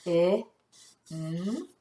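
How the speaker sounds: "I, N" as isolated short-i and soft n sounds; sounding out. Shown as a demonstration. Teacher checking spelling sound by sound, sounding out. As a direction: say "I, N" sound by sound, long pause between. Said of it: "Let's tap those sounds".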